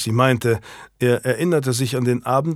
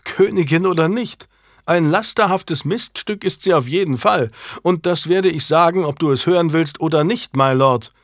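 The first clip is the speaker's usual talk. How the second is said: higher and louder, spitting contempt; furious tirade; 6 semitones higher, 4 dB louder than usual. A narrator's reading. Janet raging at her adulterous husband, higher and louder. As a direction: tear into him with open rage.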